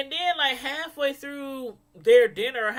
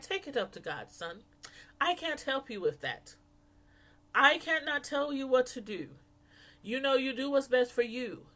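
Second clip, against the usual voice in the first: put-on mother quoted in a loose Jamaican accent; attempted Jamaican accent. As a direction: try a light, imperfect Jamaican accent. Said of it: "So she has an accent. I can't really do her accent".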